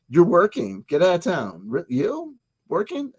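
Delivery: rising, incredulous "Working?"; mock disbelief. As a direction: act stunned that they're working.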